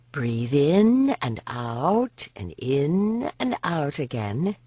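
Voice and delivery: very slow, soothing breath count; calm guiding voice. Acted. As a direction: lead her breathing gently and slowly. Lianen guides breathing.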